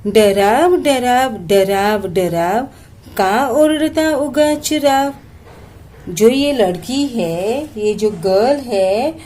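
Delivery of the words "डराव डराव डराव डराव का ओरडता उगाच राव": slow, sing-song poem reading; poem recitation. Shown as a demonstration. Teacher reciting a Marathi poem to students, slow and sing-song. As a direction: recite each line slowly to the class.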